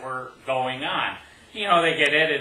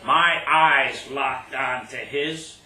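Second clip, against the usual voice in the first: deliberate poetry reading with punched key words; phrase it line by line, building suspense; poem recital; 4 dB louder, slower than usual. Acted. Poet recounting the last play of a game, poem recital.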